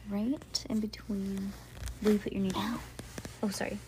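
hushed whisper, slowed down. Real, not acted. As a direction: whisper so nothing moves. Holding the phone still.

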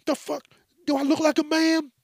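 high, indignant mock shriek of outrage; offended outrage. Stranger snapping at a polite kid, high indignant outrage. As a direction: snap back like someone deeply insulted at being called ma'am. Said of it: "And then the person goes".

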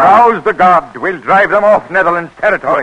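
rally the men to drive them off; angry command. Acted. Commissary ordering the guard against the Swedes, angry command.

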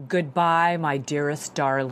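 mock tender farewell. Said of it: "and he says".

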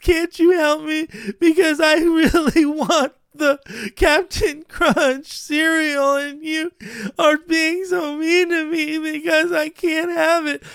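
put-on high, drawn-out wail of a pleading little girl; hammed-up tearful begging, slow and high; mock cry-talking. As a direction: imitate a small child sobbing through words. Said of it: "she cry talks and she's like".

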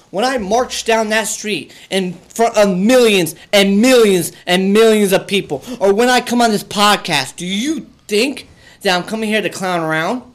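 intense wrestler trash talk, building; wrestling promo. Acted. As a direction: call him out like a wrestling heel. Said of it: "I'm gonna cut a promo".

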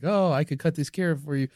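slow suggestive sales pitch; sleazy salesman voice. Retold or imitated. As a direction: drag it out, smarmy. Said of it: "you're like".

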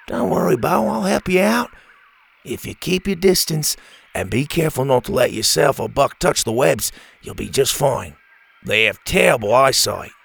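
lightly voiced eager professor; enthusiastic scientist. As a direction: gush about spiders like a fan. Doctor Rex reassures Bo.

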